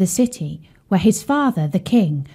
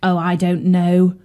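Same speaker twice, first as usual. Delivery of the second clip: glum. Acted. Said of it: "said Bertie glumly".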